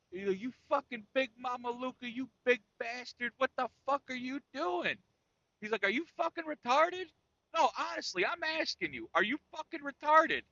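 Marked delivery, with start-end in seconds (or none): 0.4-5.0 higher mock-angry rant; pitched-up imitation of a pissed-off dad; imitating angry dad. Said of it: "he was pissed". 5.8-10.4 much higher, mock-exasperated yell; high hammed-up angry rant; imitating furious dad. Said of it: "he was pissed".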